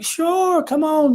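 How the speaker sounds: high-pitched, acted-out eager yes; eager agreement. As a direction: play up a keen, welcoming yes. Acts out agreeing to a photo.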